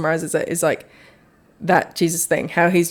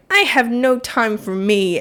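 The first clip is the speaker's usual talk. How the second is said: mock complaining; 5 semitones higher, slower than usual. Acts out overwhelmed mum's complaint.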